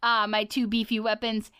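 a lightly voiced, boastful icy king; tough Ice King. Ice King bragging about his arms, a light swagger. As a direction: show off his muscles, swaggering.

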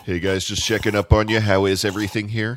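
loud upbeat server check-in; bright, fast waiter voice; chirpy waiter. Acted.

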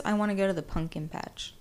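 "pumpkin" said as "punkin", in own voice; mispronounced pumpkin. Retold or imitated. Quoting the man she disapproves of, "pumpkin" as "punkin". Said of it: "If he says".

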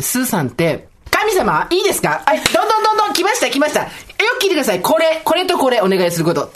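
hammed-up pressing of a wish on the shrine god; pushy praying. Friend retells how she prays at a shrine, with mock pushy insistence. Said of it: "ものすごい圧でお願いしてんのが".

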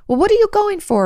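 high, mocking parent voice; mock parent challenge. Parent challenging the adult child about leaving, high mocking. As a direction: squeak it like a scolding parent.

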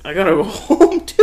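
a high, loud, laughing bail-out; mock panic with a laugh breaking in; scared excuse, laughing. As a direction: blurt the excuse through a laugh, wanting out. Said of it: "I'm like".

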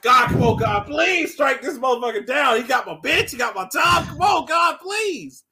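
loud, hammed-up desperate begging; pleading prayer. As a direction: shout to heaven, rising as you beg. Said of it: "that's exactly how he said it in the church".

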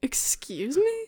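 whispered, slow disbelief; incredulous whisper. Real, not acted. Guest who has never heard of the NES, whispered disbelief. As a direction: breathe it out as if you misheard.

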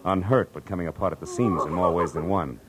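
brisk noir narration; hard-boiled narration. A narrator's reading. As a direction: tell it like a private eye looking back. Detective narrates the scene.

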